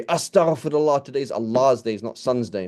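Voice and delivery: high mock-pious outcry, then easing down; mock scandalised objection. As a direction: play an appalled nitpicker correcting someone. Imagined objector scolds over saying Sunday.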